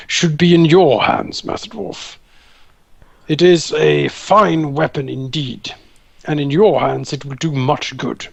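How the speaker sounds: slow, earnest handing over of a gift; captain solemnly gifting the warhammer; solemn offering. Acted. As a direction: present the weapon with gravity.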